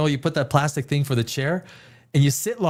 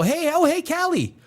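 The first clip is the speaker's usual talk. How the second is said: much higher, bubbly mock greeting; mock cheerful chat; 7 semitones higher than usual. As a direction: play a giddy kid bumping into a friend. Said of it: "And then you go".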